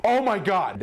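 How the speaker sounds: high-pitched startled outburst; imitated alarm. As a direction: mimic a sister's shocked cry. Sister reacts to approaching light.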